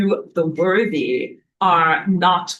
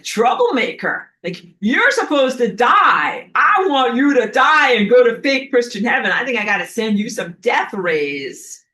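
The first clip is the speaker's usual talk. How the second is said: mock sun threat; 3 semitones higher, 5 dB louder than usual. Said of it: "the sun is like".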